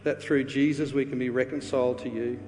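earnest, measured prayer over the congregation; pastor's closing prayer. Acted.

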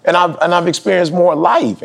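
high, defensive protest; retold stubborn claim, pitched high; stubborn insistence. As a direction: dig in your heels. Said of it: "I was stuck on".

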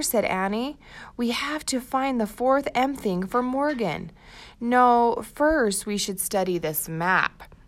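put-on storybook read-aloud for young kids; reading to children. Teacher reads the chapter aloud to first graders, storybook voice. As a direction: tell the story brightly to a class.

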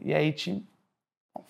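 usual speaking voice

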